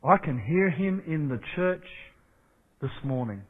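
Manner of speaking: soft and hushed, fading away at the end; hushed awe. Acted. Pastor quietly telling the church he hears God, hushed. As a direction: let it fall to a near hush.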